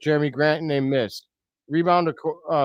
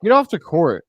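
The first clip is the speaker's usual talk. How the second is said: angry outburst; 5 dB louder than usual. Real, not acted. Coach bumps the referee.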